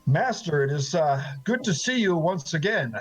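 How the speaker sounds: calm, controlled greeting over held-back anger. Acted. Angry former student greets his old master, calm and controlled. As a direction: keep the voice even while angry. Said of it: "he keeps his voice calm".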